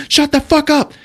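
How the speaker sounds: high, loud mock snap; mock angry. Podcaster voicing a character telling Treat off, mock anger. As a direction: shout him down, half-hammed. Retelling movie, character snapping back.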